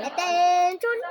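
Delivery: loud drill shout, rising; military command. Shown as a demonstration. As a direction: bark it like a drill sergeant. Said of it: "Sabi ko". (sigaw na parang sundalo)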